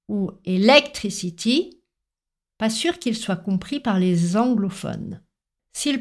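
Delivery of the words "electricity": electricity in a French accent, stress wrongly early on LEC; French-accented electricity, punching the second syllable. Shown as a demonstration. Teacher imitating French speakers' mistake, French accent, misplaced stress. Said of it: "Si un Français prononce".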